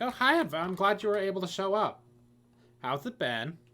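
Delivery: friendly, welcoming, warm, high-pitched tone. Voicing a character who meets the player off the bus: warm greeting in character. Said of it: "she greets you warmly".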